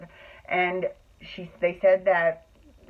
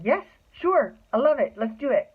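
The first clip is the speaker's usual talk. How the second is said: much higher, gushing yes; eager yes; 8 semitones higher than usual. Retold or imitated. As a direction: jump at the offer, squealing. Accepting a dream invitation.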